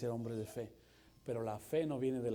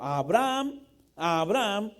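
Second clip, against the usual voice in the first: loud, higher calling from heaven; angel calling out; 6 semitones higher, 11 dB louder, slower than usual. A narrator's reading. Angel of the Lord calling Abraham from heaven, loud. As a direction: call his name across the sky. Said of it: "le gritó desde el cielo".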